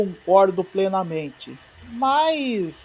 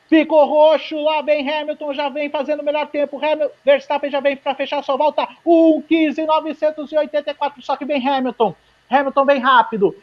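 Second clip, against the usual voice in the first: excited; 5 semitones higher than usual. Real, not acted. Final corners of the lap.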